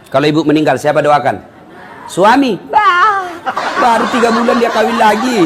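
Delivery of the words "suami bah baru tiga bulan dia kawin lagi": laughing scoff. Real, not acted. Preacher mocking a husband who remarried fast, laughing. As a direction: laugh at him as you say it.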